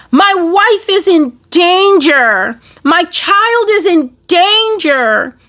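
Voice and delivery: high, slow, wailing plea for help; mock sad pleading. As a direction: whimper it out like a frightened victim begging viewers. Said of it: "He did not speak peacefully or in a sad voice, like".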